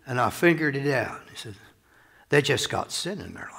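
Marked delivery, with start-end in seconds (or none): 0.1-1.2 homespun Southern preacher voice; imitated Southern accent. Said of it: "southern accent very good". 2.3-3.5 folksy Southern punchline; imitated Southern accent. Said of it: "southern accent very good".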